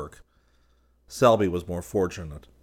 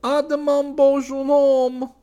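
much higher, slow, sing-song flirtatious call; flirty model calling; 9 dB louder, slower than usual. A narrator's reading. The model blowing Selby a kiss and calling out flirtatiously. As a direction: call it out playfully, drawn out. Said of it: "laughing, kissed her hand to him and cried".

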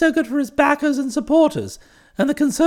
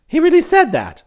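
raised, louder voice of disbelief; incredulous question; 4 semitones higher, 5 dB louder than usual. Acted. Employer checking the report with his valet, incredulous. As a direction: ask it as if astounded.

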